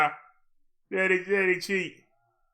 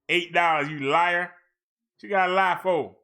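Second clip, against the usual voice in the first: mock-outraged, a little louder; playful accusation; 4 dB louder than usual. Real, not acted. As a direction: call the website a liar, half joking. Scolding the site over prices.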